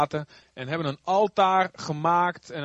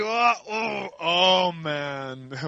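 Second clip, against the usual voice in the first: startled cry; much slower than usual. Acted. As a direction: gasp as your arm locks up. Koning voelt zijn arm verstijven. (geschrokken koning, licht gespeeld)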